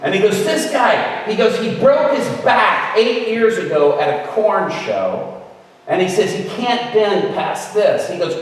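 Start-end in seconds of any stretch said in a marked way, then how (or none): 0.4-1.2 loud, higher-pitched insistence; single someone out across a crowd; imitating an insistent call. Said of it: "Brian Welch speaks up". 1.6-8.1 loud, raised-pitch announcement; imitating a man calling out; speaking up. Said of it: "Brian Welch speaks up".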